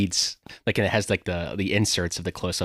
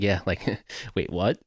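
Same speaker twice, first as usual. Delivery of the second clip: mock laughing disbelief, trailing softer; imitated incredulous laugh; 3 dB quieter than usual. Sidekick reacting to a serious plan to steal, laughing disbelief. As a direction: laugh partway into a puzzled question. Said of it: "he, like, laughs and he goes".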